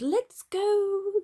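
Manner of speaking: high, loud gleeful yell. A narrator's reading. Robbers yelling as they make off. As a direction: yell it out in triumph. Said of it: "they yelled".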